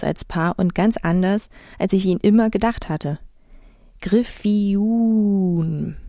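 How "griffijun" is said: "Griffijun" drawn out slowly on the last syllable; stress at the back. A narrator's reading. Narrator trying out the island's name, "Griffijun" stressed on the end. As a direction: stretch the final "jun" of "Griffijun". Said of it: "Betonung hinten, nicht vorne".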